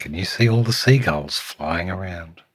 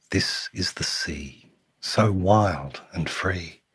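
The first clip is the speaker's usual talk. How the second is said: lilting storytime read with punched key words; picture book narration; 4 dB louder than usual. A narrator's reading. Reading a picture book to Samuel, lilting storytime voice. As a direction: read it to a small child, savouring the rhyme.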